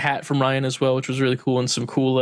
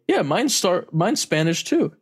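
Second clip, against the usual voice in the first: imitating Ryan, higher; 6 semitones higher than usual. Ryan chimes in.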